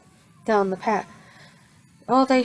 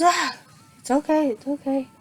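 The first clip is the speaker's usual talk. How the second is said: raised voice; 5 semitones higher than usual. Retold or imitated. Midoriya coming to, reassuring.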